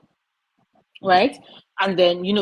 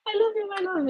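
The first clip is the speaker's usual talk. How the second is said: much higher, quick, laughing; laughing gush; 14 semitones higher, much faster than usual. Real, not acted. Laughing, gushing over cat.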